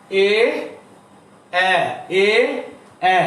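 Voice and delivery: এ said with lips spread wide, repeated; vowel demo. Shown as a demonstration. Bengali teacher demonstrating the spread vowel. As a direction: stretch the lips on each এ. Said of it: "এ বলার সময় আবার একটু ঠোঁট প্রসারিত হচ্ছে".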